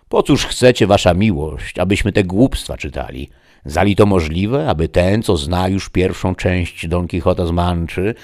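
slightly loud, dismissive questioning; disdainful gentleman, objecting. Acted. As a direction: object with some emphasis. Don Hieronim objects to reading.

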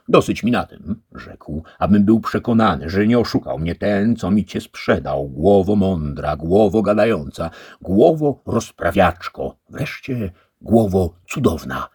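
głośniej i wyżej, entuzjastyczne pochwały; zachwycony gospodarz. A narrator's reading. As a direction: wychwala cudowną głowę. Antonio praises the head. (Don Antonio zachwycony głową)

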